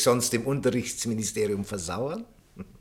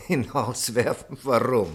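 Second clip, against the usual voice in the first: incredulous laugh. Acted. Incredulous at the order to dismiss.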